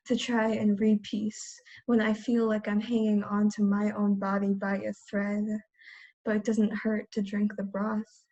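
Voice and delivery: measured spoken-word poem delivery; poetry reading. Acted. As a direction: recite it evenly, pausing between phrases. Reads own poem aloud.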